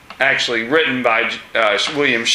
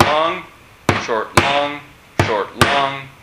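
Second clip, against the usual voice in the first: "short" light and "long" held, in a steady beat; drum beat rhythm; slower than usual. Shown as a demonstration. Teacher beating out the iambic rhythm for the class, steady and even. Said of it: "it's like a drum beat".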